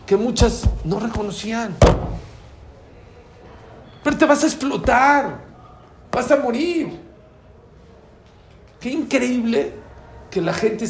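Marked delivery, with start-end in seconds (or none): 4.0-7.0 raised, urgent voice; urgent warning. Acted. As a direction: warn them loudly. Warning about exploding, dying. (advertencia urgente en voz alta)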